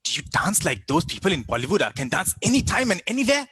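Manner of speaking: mock-eager question climbing high at the end; eager stereotyper. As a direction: imitate a nosy know-it-all, pitch rising. Mimics people asking stereotyped questions.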